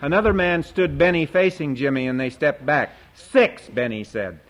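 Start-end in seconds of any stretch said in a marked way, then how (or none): 3.1-3.7 eager bid. Acted. Boy bidding in auction.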